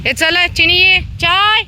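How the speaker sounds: very high, loud call; calling a dog. Real, not acted. Woman calling Chini to come, very high and loud. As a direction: squeal the dog's name across the lane.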